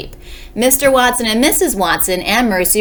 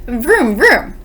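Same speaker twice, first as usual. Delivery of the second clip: higher playful vroom noises; imitated car engine; 4 semitones higher, 3 dB louder than usual. A narrator's reading. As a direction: mimic revving in mock sleep-talk. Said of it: "said Mister Watson in his sleep".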